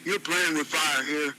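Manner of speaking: controlled, understated menace; calm but threatening. Acted. Ron warns Tony not to test him, calmly threatening. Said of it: "in a calm but threatening tone".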